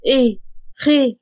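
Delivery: short, mildly alarmed questions; jolted out of sleep; understated startled reaction; startled awake. Acted. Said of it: "قام اتفزع من نومه".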